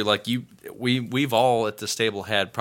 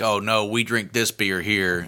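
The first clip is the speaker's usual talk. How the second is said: slow, lightly put-on redneck accent; a hint of a territorial Texas redneck accent; slow mock redneck twang guarding the local beer. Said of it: "have a redneck accent whenever I get territorial".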